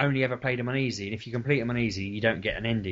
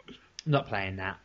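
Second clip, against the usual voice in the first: slow, hushed, NOT pressed; quietly stressing not in "I'm not playing that"; muttered refusal; 6 semitones lower, 8 dB quieter, slower than usual. Dad to himself about daughter, slow quiet refusal. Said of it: "I looked around and I thought".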